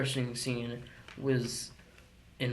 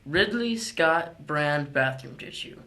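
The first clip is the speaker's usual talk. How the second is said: chipper 1950s ad. Pretend. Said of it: "give a shout out to our real sponsors".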